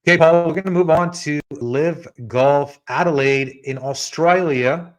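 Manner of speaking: a light mock Australian accent. A golf picks host trying an Australian accent on his cohost. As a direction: put on a playful Aussie twang, mildly. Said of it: "That's my best Australian accent".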